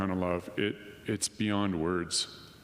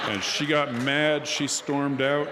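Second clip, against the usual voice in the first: louder, higher, slow with laughter; amused retelling; 6 semitones higher, 5 dB louder, slower than usual. Real, not acted. Telling the audience how she left, loud amused. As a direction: tell it loud, cracking up.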